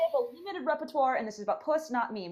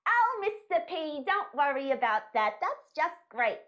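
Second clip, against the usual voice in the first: higher, drawn-out gushing; sugary fake praise voice; 4 semitones higher than usual. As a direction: gush like a sickly-sweet parent. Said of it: "if I was gonna adjust that slightly, it'd be".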